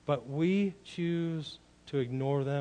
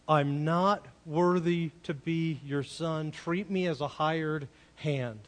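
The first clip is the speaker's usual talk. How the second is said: slow, measured recital of a humble plea; lightly voiced penitent son, taking it slowly; wayward son rehearsing; slower than usual. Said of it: "His story that he rehearses".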